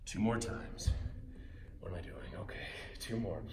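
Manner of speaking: low, soft groggy morning voice; sleepy morning voice, whispered. Real, not acted. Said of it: "Just put on my morning voice".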